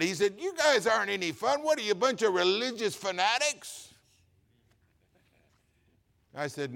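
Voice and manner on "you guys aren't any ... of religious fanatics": mock annoyed coworker. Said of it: "And he'd get mad".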